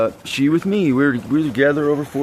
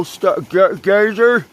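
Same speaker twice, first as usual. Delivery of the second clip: "Star-, ga-, gazer" broken into separate beats, higher and louder; syllables split apart; 7 semitones higher, 4 dB louder, much slower than usual. Shown as a demonstration. Showing the listener the hidden syllable, spelled out in pieces. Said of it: "there's a syllable in it that says gay".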